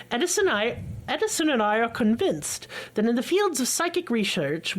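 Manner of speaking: lightly voiced old-fashioned gentleman; old-timey man voice. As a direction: read it like a stuffy old diary writer. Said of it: "I like your old-timey man voice".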